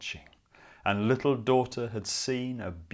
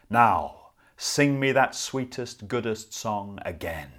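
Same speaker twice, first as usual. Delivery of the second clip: louder, coaxing wolf; 5 dB louder than usual. Acted. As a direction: demand the song like a wolf. Wolf demands the song.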